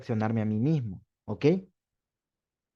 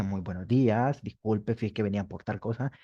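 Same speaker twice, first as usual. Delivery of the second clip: lower, softer, courteous request; polite formal greeting; 4 semitones lower, 4 dB quieter than usual. Shown as a demonstration. Teacher showing a polite greeting at a company. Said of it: "Usted llega y dice".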